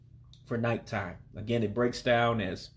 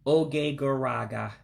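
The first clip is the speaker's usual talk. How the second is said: careful, drawn-out model phrase; slow teaching pace, words linked; slow demonstration. Shown as a demonstration. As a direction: say it slowly for learners. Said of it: "say it one more time slowly".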